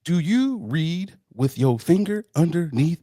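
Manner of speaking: slow legal-ad announcer; lawyer ad voice. Pretend. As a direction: pitch it like a TV injury ad. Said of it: "mesothelioma, myeloma commercials".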